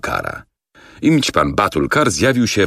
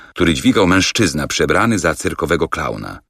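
plain reading voice

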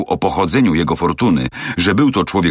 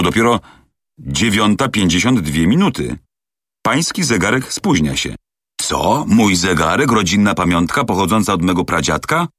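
lightly voiced indignant servant; 2 semitones higher than usual. Servant defends his great-grandfather's watch, mild indignation. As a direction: defend the family watch with pride.

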